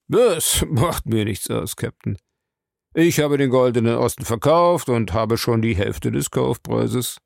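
lightly voiced smug bar owner; unbothered suspect. Bar owner shrugging off the captain's threat, lightly smug.

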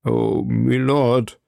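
slow, drawn-out groan of grief; groaning lament. A narrator's reading. Baron laments to his wounded friend, slow groan. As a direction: let the grief drag the words out. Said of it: "ächzte der Baron".

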